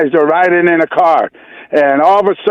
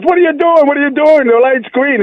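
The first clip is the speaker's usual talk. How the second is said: higher, hammed-up frantic passenger; mock-hysterical passenger; 6 semitones higher than usual. Caller's joke passenger pitched up in mock panic at a green light. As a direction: squeal at the driver in mock panic.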